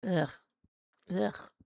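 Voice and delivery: grossed-out ugh; disgusted groan. Real, not acted. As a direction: groan at a bad taste. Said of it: "did not care for that taste".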